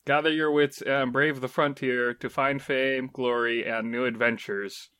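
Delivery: trailer voice. Acted. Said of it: "If you read any game description in that voice".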